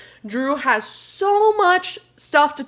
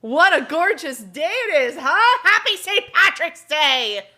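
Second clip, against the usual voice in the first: exuberant greeting; 5 semitones higher than usual. Retold or imitated. Hollering cheer after sprint upstairs.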